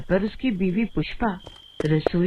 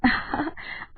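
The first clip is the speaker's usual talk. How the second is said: delighted laugh; 5 semitones higher, 5 dB quieter than usual. Acted. Wife delighted at riches.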